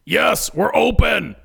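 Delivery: high, slow yell; exasperated yell. Acted. Ed yells to a customer at the door, drawn-out yell. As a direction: yell it across, drawing out the words. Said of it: "Ed yells to the customer".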